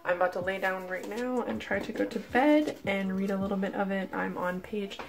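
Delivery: hushed, worn-out talk at night; tired and sore. Real, not acted. Updating her viewers at night in pain, hushed and tired.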